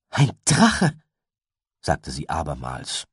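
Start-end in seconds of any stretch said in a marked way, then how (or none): 0.1-0.9 laut und hoch ausgesprochen; vernehmlich. A narrator's reading. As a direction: sag es staunend, deutlich hörbar. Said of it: "diesmal aber vernehmlich". (vernehmlich, mit gehobener Stimme)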